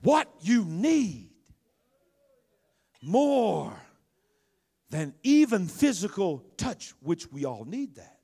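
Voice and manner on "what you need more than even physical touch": emphatic, spaced-out sermon delivery; preaching. Acted. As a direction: drive each phrase home from the pulpit. Returns to preaching.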